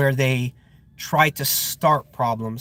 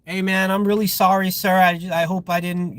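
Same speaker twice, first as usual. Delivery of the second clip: meek apology, acted out on a higher pitch; hypothetical sheepish apology, pitched up; mock apologetic; 5 semitones higher than usual. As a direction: play an over-deferential guard saying sorry. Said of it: "If I had been like".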